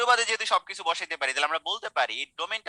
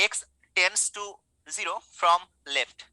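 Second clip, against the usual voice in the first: X tends to zero from left, stretched out very slowly word by word; slow careful reading; 3 semitones higher, much slower than usual. Shown as a demonstration. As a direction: spell the notation out slowly for students. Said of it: "এখন এটাকে pronunciation করবে কিভাবে". (ধীরে ধীরে স্পষ্ট উচ্চারণ)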